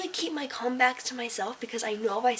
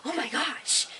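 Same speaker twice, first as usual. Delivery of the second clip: mock uppity; 5 semitones higher, slower than usual. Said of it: "really uppity and, like".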